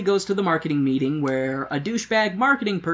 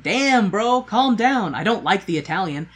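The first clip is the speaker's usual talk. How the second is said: higher, louder mock scolding; mock Eve; 5 semitones higher, 4 dB louder than usual. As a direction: tell him off in a pitched-up voice. Eve telling Farley off.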